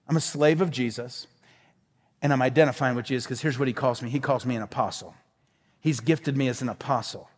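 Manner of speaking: low, soft and humble; quietly owning a title given by his master; humble confession. Acted. Voices Peter's humble words.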